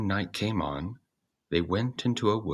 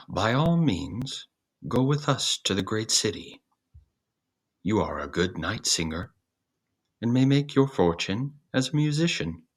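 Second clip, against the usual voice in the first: lightly voiced eager donkey, raised; a hint of a cheerful donkey, pitched higher; friendly donkey; 4 semitones higher than usual. The ass invites the cat.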